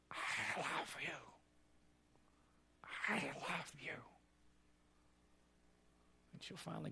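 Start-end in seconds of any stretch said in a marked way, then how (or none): 0.1-4.0 faint, very slow, strained words; husband without a voice box telling his wife he loves her; eked-out words. Retold or imitated. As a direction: push the words out with almost no voice. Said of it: "he will eke out these words".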